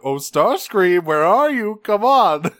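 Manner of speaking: high, loud, sing-song calling out; taunting call. Retold or imitated. Megatron chasing Starscream around, taunting call. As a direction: call playfully for someone you're hunting.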